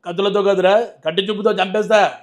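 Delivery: a light, punchy Balayya dialogue delivery; lightly voiced Balayya film punch line; Balayya impression. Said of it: "voice ditto Balayya Babu లాగా ఉంది".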